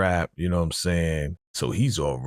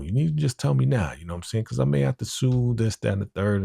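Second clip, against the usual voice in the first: insistent husband voice; 7 semitones higher, faster than usual. Retold or imitated. Husband threatening to sue.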